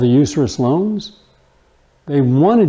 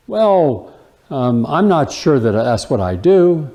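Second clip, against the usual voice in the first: hesitant excuse; slower than usual. Retold or imitated. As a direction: stall for time while caught out. Friend hedging when caught lying.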